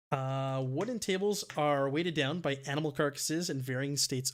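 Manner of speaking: measured scene-setting narration; game master's narration. A narrator's reading. Game master describing a kitchen to the players, measured narration. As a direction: read out the room description to the players.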